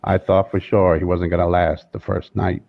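lightly voiced slow, deep Morgan Freeman; slow, low narrator drawl of Morgan Freeman; a hint of Morgan Freeman, unhurried and low; Morgan Freeman impression.

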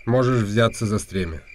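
a noble talking down to a commoner; haughty noble. Acted. Rumata voiced as aristocrat. (надменный дворянин, выше)

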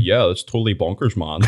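laughing through a light Edinburgh lad impression; mock Edinburgh accent. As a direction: toss it off like the wee guy, laughing. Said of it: "give us another one".

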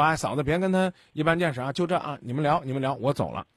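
soothing a sister-in-law. Shown as a demonstration. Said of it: "我会说".

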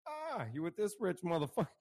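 high, mocking voice for the rich guy; mocking jealous ex. Mocking his ex about her rich new man, high and taunting. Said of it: "and I'm like".

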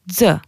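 z said as "dzeu"; d and z joined, plus eu, for z; z as "dzuh"; Albanian X sound. Shown as a demonstration. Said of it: "ça se prononce".

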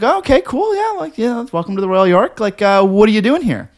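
high-pitched imitation of a suspicious guard; mock security guard. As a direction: ham up the nosy guard's questions. Security guard questioning narrator.

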